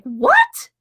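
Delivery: high, squeaky disbelieving what; a wife hearing she gets the car all day; shocked what. Retold or imitated. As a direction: gasp it out in pure disbelief. Stunned by test drive offer.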